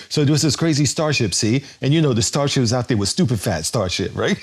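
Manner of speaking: a quick, half-hearted Kor impression in a barely changed voice; imitating Kor. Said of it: "I could see Kor going like".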